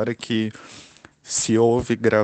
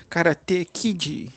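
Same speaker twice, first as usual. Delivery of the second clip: put-on Rio accent; 6 semitones higher, much slower than usual. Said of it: "sotaque de carioca".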